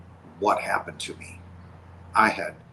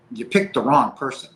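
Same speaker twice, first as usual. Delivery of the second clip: retold yelling; 3 semitones higher, 6 dB louder than usual. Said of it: "kinda yelling at God".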